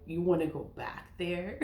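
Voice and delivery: chuckling as she asks; a half-laughing, incredulous question; laughing disbelief. Real, not acted. Mocking the idea of returning.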